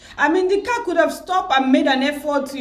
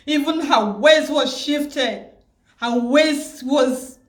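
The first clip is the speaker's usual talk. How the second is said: crying; 2 semitones higher, slower than usual. Real, not acted. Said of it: "I'm really sorry I'm crying".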